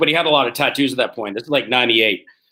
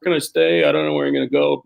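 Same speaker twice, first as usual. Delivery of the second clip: put-on lost naive kid.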